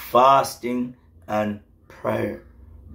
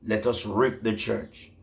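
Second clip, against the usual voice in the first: softer, menacing voice of the strange man; a hushed threat from a strange figure; sinister man; 4 dB quieter than usual. Retold or imitated. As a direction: voice the evil man plotting, softly. Story of the strange man's army.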